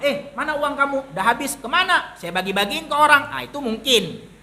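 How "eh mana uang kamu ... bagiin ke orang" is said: higher-pitched, lightly acted back-and-forth; mock questioning exchange. Preacher acts someone asked where the money went, mock questioning exchange. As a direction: play both sides lightly, pitched up.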